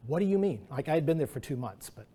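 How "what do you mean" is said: baffled question. Retold or imitated. Baffled by vague feedback.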